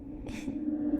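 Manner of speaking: a tiny airy laugh; soft breathy chuckle. Acted. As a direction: laugh quietly through the breath. Receptionist chuckles mid-sentence.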